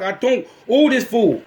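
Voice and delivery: high, slow, emphatic mock fury; acted-out exasperated rant; mad outburst. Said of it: "throwing my phone everywhere and smacking everything".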